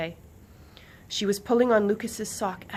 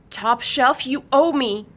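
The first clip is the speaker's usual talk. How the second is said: 1 lightly voiced singer; 6 semitones higher, 10 dB louder than usual. A narrator's reading. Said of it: "she said last night".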